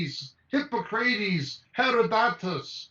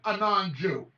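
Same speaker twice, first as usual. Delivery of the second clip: emphatic near-shout. Real, not acted. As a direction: hammer the point home, raised voice. Repeats the point emphatically.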